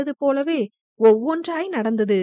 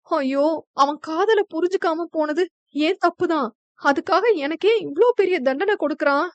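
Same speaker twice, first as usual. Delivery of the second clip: tearful lament; 4 semitones higher than usual. Acted. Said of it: "அழுதபடி அவள் புலம்ப".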